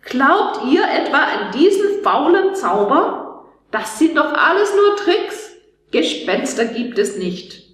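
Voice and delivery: put-on jeering know-it-all boy; mocking. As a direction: scoff at the scared classmates. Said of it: "Doch er verspottete uns".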